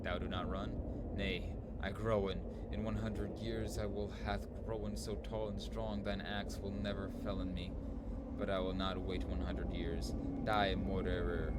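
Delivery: hammed-up mock Shakespearean tree talk; archaic fairy-tale voices. Voicing the woodcutter and tree in archaic speech. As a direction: play both woodcutter and trees in old speech. Voicing trees in a dream quest.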